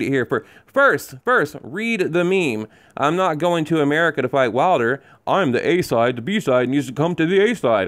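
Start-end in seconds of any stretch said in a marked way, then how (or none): 3.0-7.9 a light hint of a pompous boxer reading his own boast; mock diva. Reading the rival's boast to viewers, a mild mock diva voice. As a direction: read the quote like a self-important diva, only lightly voiced. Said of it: "Spoken like a diva".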